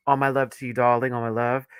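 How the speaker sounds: slipping into a British accent; accidental British accent. Real, not acted. Host greeting a viewer in chat, accidental British accent. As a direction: drift into a playful British lilt. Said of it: "I don't know where I went into a British accent".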